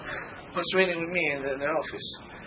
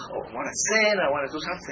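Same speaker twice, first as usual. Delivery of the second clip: frustrated outburst; 7 semitones higher, 4 dB louder than usual. Retold or imitated. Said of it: "Sometimes I get upset".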